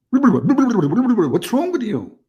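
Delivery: very slow, high, drawn-out exasperated cry. Real, not acted. Host loses patience with a caller he cannot understand. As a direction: stretch every word out in disbelief.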